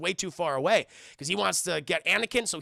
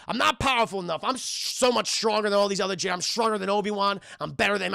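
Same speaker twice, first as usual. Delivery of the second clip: frustrated rant; 2 semitones higher, 3 dB louder than usual. Retold or imitated. Anakin ranting about the Jedi.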